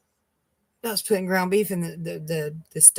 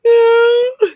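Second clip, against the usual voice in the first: a loud, high wail, much higher and louder, breaking into tears; crying wail; 14 dB louder than usual. Retold or imitated. Retelling how she answered the coworker, wailing. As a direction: wail the word out like the tears just burst. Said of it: "I went".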